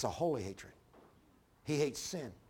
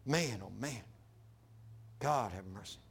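dismayed lament; 8 semitones lower, 6 dB quieter than usual. Retold or imitated. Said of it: "I go".

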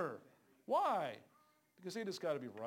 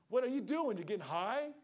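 retold rebuke; 4 semitones higher, 4 dB louder than usual. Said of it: "Just like that".

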